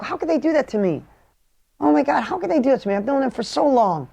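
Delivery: hurt disbelief. Retold or imitated. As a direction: replay the betrayed feeling, half-acted.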